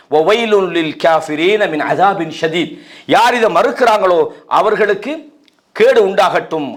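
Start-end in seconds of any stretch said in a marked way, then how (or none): 0.1-2.7 slow, measured Arabic recitation; Quran recitation. Acted. Preacher continues God's words to listeners, slow recitation. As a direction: recite the verse unhurriedly, vowels lengthened. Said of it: "சொல்லிவிட்டு அல்லாஹ் சொல்றான்".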